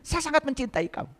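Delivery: tender murmur to his own hands; soft loving words. Shown as a demonstration. Preacher softly telling his hands he loves them. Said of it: "saya katakan".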